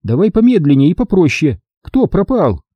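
high woman's voice, slowing him down; steady him, pitched high; narrator's high voice for Sonya, calm and businesslike; Sonya, patient. A narrator's reading. Sonya calming the panicked hero.

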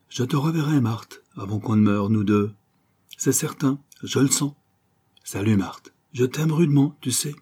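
earnest farewell, rising high in places; lightly voiced Joey. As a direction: insist on affection to a departing friend. Voices Joey's farewell to his friend. (adieu sincère et ému, légèrement joué)

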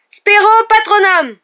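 slow, high, full-force spell; very loud chanted cry; shouted incantation. Acted. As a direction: hurl the spell with drawn-out words. Harry casts spell against dementors.

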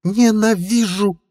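high, slow drawn-out yell; furious shout. A narrator's reading. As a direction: scream it in fury. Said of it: "рыкнула Стелла".

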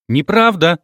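loud, high scream of denial. A narrator's reading. Rita screams at Karina over the phone, outraged. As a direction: howl it out in outrage. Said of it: "завопила Воскобойникова".

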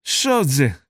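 menacing shout. A narrator's reading. Sleeper threatening whoever disturbs his sleep, mild menacing shout. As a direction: demand it like a woken sleeper. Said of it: "грізно крикнув Сплюх".

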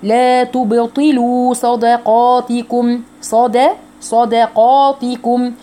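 slow chanted phrase, drawn-out vowels; tajweed recitation. Shown as a demonstration. Teacher models the phrase for students, slow chanting. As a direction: recite slowly, each syllable clear. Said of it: "teacher models the phrase".

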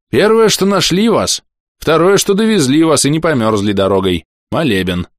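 a hint of a kindly fretting old mayor; old man voice. Старик объясняет двойное чудо. (лёгкий голос суетливого старика)

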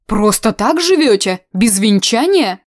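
a pious aunt taken aback; old-fashioned disapproval; shocked old aunt. Acted.

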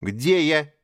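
high, loud demanding question. Acted. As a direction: insist on an answer. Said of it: "требовательно спросил Маугли".

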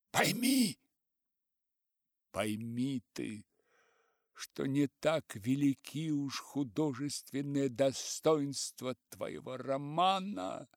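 slow, lightly pleading; pleading elder. Acted. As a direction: beg him to understand. Old writer pleading.

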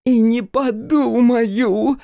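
very high, loud, slow wail; sulky drunk woman wailing; wailing refusal. Acted. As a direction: howl it out in drunken defiance. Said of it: "взвыла она".

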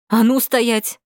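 high, loud command at gunpoint; loud, high shouted order; yelling. A narrator's reading. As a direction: bellow it to throw them off. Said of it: "заорала я изо всех сил".

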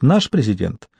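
lecturing scorn rising to high disbelief; disdainful. A narrator's reading. Mary Margaret lectures Julian on their president, disdainful. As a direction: start measured, climb to an incredulous high question. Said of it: "презрительно сказала".

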